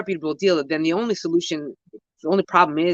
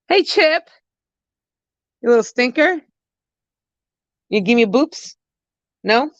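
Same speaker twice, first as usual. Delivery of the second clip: high, louder cooing at the pet; 6 semitones higher, 4 dB louder than usual. Real, not acted. Owner baby-talking to pet Chip, high cooing.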